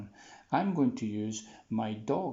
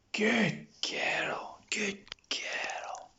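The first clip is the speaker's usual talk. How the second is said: whispered praise; 9 semitones higher, much slower than usual. Real, not acted. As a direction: hush the praise to a calm dog. Praising the dog quietly.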